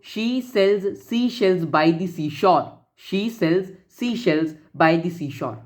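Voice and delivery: slow, measured tongue-twister, each word set apart; deliberate, drawn-out recitation for learners; slow example reading. Shown as a demonstration. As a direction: read it out slowly, word by word. Reads out tongue-twister example for alliteration.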